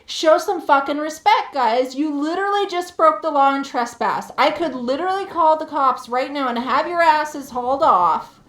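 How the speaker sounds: yelling back. Retold or imitated. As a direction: tell them off, loud and outraged. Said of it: "And I'm yelling right back".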